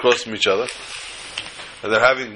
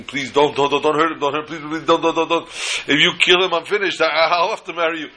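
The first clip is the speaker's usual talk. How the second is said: begging brother-in-law; 4 semitones higher than usual. Retold or imitated. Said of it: "he's begging".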